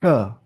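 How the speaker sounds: "ہاں" as "haa", forced breath through a tightened throat; throat drawn in. Shown as a demonstration. Teacher showing the throat going inward, ha demo. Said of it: "تھوڑا حلق اندر جانا چاہیے".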